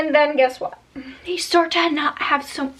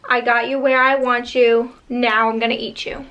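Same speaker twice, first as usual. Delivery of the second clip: mock scary monster voice; 2 semitones lower than usual. Boogeyman taunting trapped kids, mildly menacing. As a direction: lightly growl it like a boogeyman. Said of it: "like, a scary voice saying".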